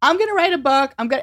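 high, loud, thrilled; bursting with news; eager announcement to husband; excited. Retold or imitated. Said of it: "I was like".

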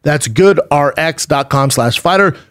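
upbeat sponsor offer, web address drawn out slowly; ad read. Real, not acted. Host giving listeners a mattress deal, ad read. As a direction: sell the deal, then spell out the address slowly.

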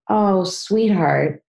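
slow, tender, drawn-out sympathy; gently soothing, with lingering words; warm loving voice. Shown as a demonstration. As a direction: comfort them like a loving mom. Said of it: "So that warm voice would say".

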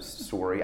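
sorry with the vowel of "sore"; Canadian "sorry". Shown as a demonstration. Actor answering an offended journalist, Canadian "sorry" as "sore-ee". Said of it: "how Canadians say sorry".

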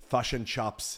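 fish and chops with chips said as chops; New Zealand accent. Shown as a demonstration. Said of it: "New Zealand accent".

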